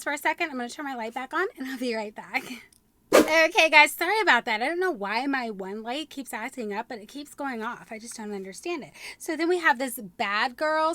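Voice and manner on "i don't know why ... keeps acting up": ordinary delivery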